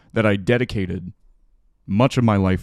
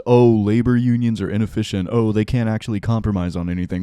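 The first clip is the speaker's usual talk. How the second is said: sneering imitation of the spin; mock the company line, fast; faster than usual. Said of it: "this is being spun as".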